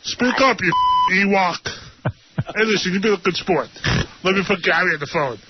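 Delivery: low, fast buddy voice; KC impression. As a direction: push the voice down and hurry. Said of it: "it's K C here".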